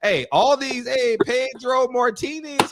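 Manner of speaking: lightly hammed-up Spanish accent; playful mock Spanish delivery. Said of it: "How did my Spanish voice go?".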